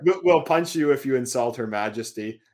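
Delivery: meme threat in a Canadian accent. Shown as a demonstration. Reading the meme to co-host, Canadian accent. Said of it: "do the whole meme in your accent".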